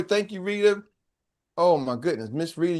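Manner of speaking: usual speaking voice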